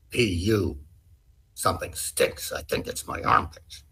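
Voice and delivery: hushed, serious reading with whispered words; too serious. Shown as a demonstration. Auditioning actor reads the script, hushed and serious. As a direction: read it intensely, half-whispered. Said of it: "you were being a little too serious".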